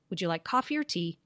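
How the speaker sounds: "Would you like coffee or tea?" fast, with "or" shrunk to a schwa; reduced or. Shown as a demonstration. Teacher showing how "or" reduces in fast speech. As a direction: rattle it off, "coffee or" run together as "coffee-er". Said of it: "becomes reduced to that schwa".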